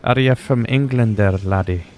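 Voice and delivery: a lightly put-on, muddled Irish accent on the viewer; half-joking Irish brogue, barely held; bad Irish accent. Teasing a viewer about England, in a shaky Irish accent. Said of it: "I don't even know what accent that was".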